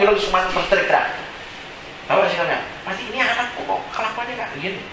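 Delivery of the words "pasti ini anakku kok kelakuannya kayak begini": very soft, hushed imitation of a puzzled father; father's muttered dismay. Father wondering about his child's behaviour, muttering. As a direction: say it under the breath.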